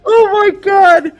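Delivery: high, slow stunned gasp of words; shocked. Real, not acted. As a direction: stretch it out in shock. Shocked reaction.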